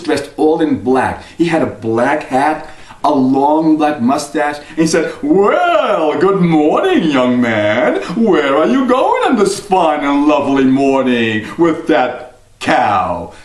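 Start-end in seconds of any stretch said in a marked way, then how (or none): 5.2-13.3 sly stranger. Acted. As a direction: greet him like a slick stranger. Mysterious man greets Jack.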